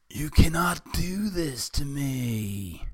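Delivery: high, slow wail of protest; acted scream. A narrator's reading. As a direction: cry out in drawn-out desperation. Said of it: "he screamed".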